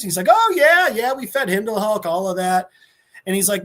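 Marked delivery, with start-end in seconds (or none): 0.3-2.7 giddy high voice. Retold or imitated. Ghost Rider casually recalls Rogers.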